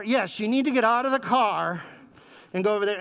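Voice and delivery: exasperated parent. Retold or imitated. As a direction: spell it out for a clueless child. Exasperated parent repeating instructions.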